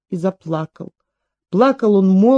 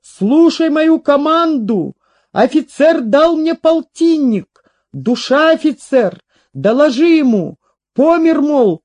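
high, emphatic, slow final order; commanding; 6 semitones higher, 3 dB louder than usual. A narrator's reading. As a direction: give the order with failing soldier's fervour. Dying soldier gives last command. (приподнятый командный голос)

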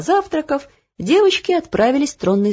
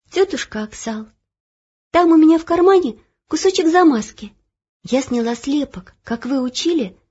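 put-on light girl's voice, higher and drowsy; sleepy girl; 6 semitones higher than usual. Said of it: "уже засыпая, проговорила". (сонный девчачий голос)

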